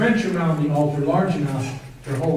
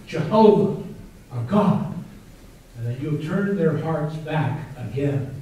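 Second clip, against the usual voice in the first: fervent prayer. Retold or imitated. Elijah's prayer on the altar.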